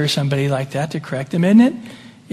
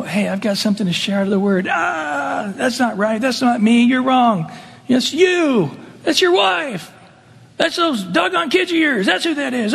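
mock defensive rant; 5 semitones higher than usual. Defensive fool rejecting rebuke.

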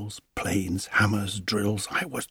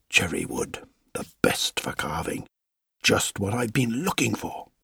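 woodcarver whispering. Acted. Woodcarver muttering to himself.

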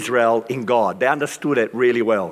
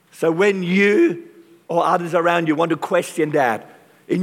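rising preaching intensity; 4 semitones higher than usual. Real, not acted. Preacher builds to climax.

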